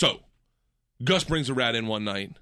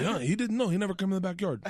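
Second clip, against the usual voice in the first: higher, badly imitated gardener's accent; horrible Gabriel accent; 5 semitones higher than usual. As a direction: do a clumsy impression of the gardener's accent. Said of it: "I'm doing a horrible Gabriel accent".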